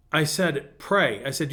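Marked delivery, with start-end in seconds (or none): 0.8-1.2 firm one-word instruction; stern. Retold or imitated. Pastor urging a lamenting nursing-home lady to pray, stern. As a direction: tell her firmly. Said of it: "I kinda got stern with her".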